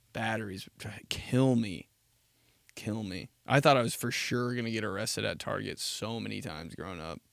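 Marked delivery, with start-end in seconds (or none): 0.1-3.3 whisper. Real, not acted. Whispered in mock shame.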